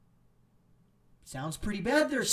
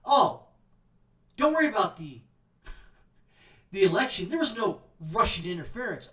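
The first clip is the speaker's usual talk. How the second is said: mock reassurance; 3 dB louder than usual. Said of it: "Now they're saying".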